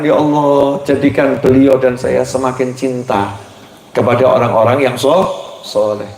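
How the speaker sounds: quiet prayer. Pretend.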